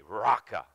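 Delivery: "raka" said RAH-kuh with an open ah; raka pronounced. Shown as a demonstration. Preacher teaching the congregation the word, saying "raka". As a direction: spell it then say "raka" slowly and clearly. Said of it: "It's R A C A".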